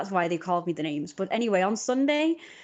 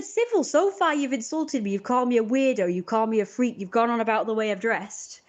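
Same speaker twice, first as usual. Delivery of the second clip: indignant retort; 4 semitones higher than usual. Retold or imitated. Her retort to the teens.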